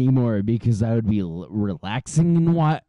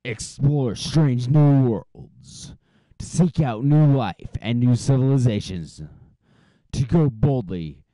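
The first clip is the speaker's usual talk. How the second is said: movie trailer voice; 3 semitones higher, 3 dB louder than usual. Pretend. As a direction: boom it out like a starship narrator. Star Trek intro recited.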